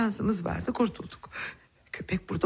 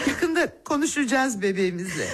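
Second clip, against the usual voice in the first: laughing through tears. Acted.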